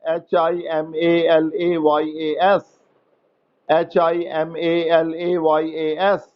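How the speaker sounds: slow spelling. Shown as a demonstration. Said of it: "spelling out letters slowly".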